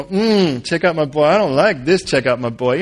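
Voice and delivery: mildly mocking, reluctant echo; grudging mimicry. Joseph objecting to God's praise, grudging mimicry. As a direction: grumble it back with distaste. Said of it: "you could see Joseph kinda go".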